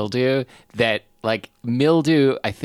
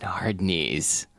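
whispered; 4 semitones lower, 5 dB quieter than usual. Acted. Repeats joke word hushed.

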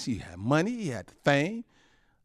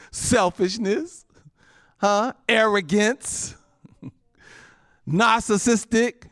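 each sin stretched slowly; drawn-out sin names; 8 semitones higher, 4 dB louder, slower than usual. Acted. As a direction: lean hard on every word, slowly. Preacher names sins, drawn out.

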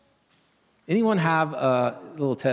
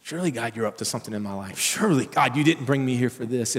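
exasperated; 2 semitones lower than usual. Shown as a demonstration. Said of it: "you're exasperated".

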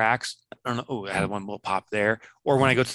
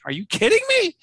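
much higher, loud are you kidding me; stunned by British swearing, played up; mock disbelief; 4 dB louder than usual. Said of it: "I'm like".

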